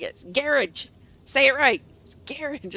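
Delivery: imitating a mom's sharp correction, garage as GARR-ij; mock-bark it like a scolding mother; mildly barked correction; retold bark. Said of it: "she barked it".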